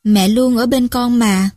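slow, tender reassurance; calm, gentle mother's comfort; soft and gentle. Acted. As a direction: soothe a frightened child. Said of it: "Vợ tôi nhỏ nhẹ".

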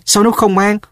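high, puzzled question. A narrator's reading. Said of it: "Sếp hỏi".

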